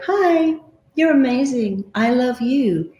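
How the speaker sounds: cheery mirror greeting. Shown as a demonstration. Coach shows a high, cheery hello to the mirror. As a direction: greet yourself like a delighted friend.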